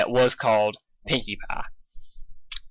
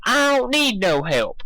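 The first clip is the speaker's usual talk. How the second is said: angry Applejack; 9 semitones higher than usual. A narrator's reading. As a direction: spell it out angrily.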